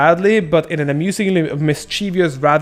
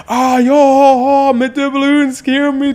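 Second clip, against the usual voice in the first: high, loud pirate voice, over the top; 10 semitones higher, 4 dB louder, slower than usual. Pretend. Imagined gunslinging pirate talking like Blackbeard, high pirate voice. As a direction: ham it up like a movie pirate. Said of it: "Imagine some black dude ... saying".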